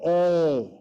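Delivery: long pure "E" with no glide; long Sanskrit E. Shown as a demonstration. Teacher demonstrating the Sanskrit vowel E, long. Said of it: "Always long".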